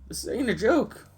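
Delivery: hammed-up Southern American guard voice; southern accent. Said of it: "I gave the other one a southern accent".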